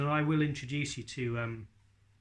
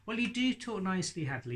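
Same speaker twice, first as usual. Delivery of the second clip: put-on high boyish northern puppet voice; 5 semitones higher, faster than usual. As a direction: play the cheeky puppet lad. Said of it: "your voice, yeah, is different to mine".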